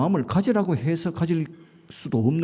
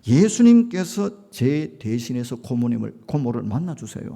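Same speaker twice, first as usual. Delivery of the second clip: earnest prayer; 4 dB louder than usual. Retold or imitated. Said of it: "짧지만은 간절하게 기도하고".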